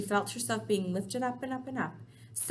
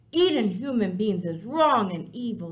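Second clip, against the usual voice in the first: firm BFG; 7 dB louder than usual. Acted.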